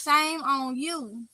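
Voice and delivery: half-joking tsk-tsk, slowed right down; slow mock shaming. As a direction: Shame on you drawn out at x0.5, teasing. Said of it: "I'm just playing".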